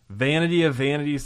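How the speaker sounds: a hint of a preacher's proclamation; quoting the preacher. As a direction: announce it like the preacher opening his book. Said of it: "says the preacher".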